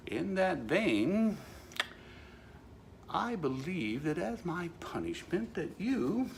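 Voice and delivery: very slow, weighty pronouncement; mock solemn decree. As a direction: stretch it out like a verdict. Mock decree to traffic cop.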